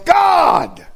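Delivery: very high, loud mock yell; retold yell. Preacher imitates girl yelling on the court, high mock yell. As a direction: belt it out, imitating her outburst. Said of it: "she yells".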